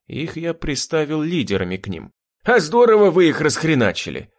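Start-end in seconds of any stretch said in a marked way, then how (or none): 2.4-4.3 delighted. A narrator's reading. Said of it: "восторженно проговорил коренастый".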